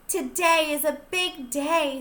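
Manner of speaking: bright storybook reading; reading to children. A narrator's reading. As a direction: read it to a class of preschoolers. Teacher reads a picture book aloud.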